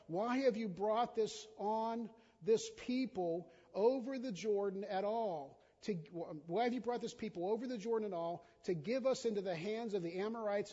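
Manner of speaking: a hint of Joshua's anguished cry; Joshua lamenting. Joshua crying out to God, a touch of anguish. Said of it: "And Joshua then said".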